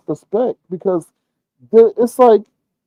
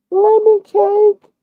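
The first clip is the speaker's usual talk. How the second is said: much higher, slow cooing woman's voice; drawn-out sweet talk; much slower than usual. Retold or imitated. Imitating the woman cooing lemon cake to Lemon, slow and high. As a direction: stretch each word out sweetly.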